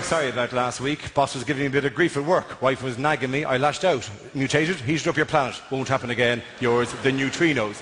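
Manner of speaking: a low, meek apology from the neutrinos; sheepish apology note. Retold or imitated. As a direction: read it like a guilty husband's apology. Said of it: "the note going".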